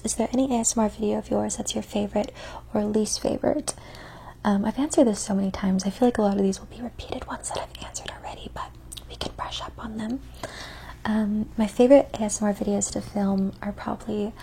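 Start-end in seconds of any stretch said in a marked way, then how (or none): 4.5-10.2 ASMR whisper. Acted. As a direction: whisper close to the mic.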